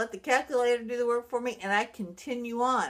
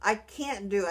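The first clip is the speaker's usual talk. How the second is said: retold exasperated outburst; fed-up outburst; 4 dB louder than usual. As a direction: brush the calculator off in disgust. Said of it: "I was like".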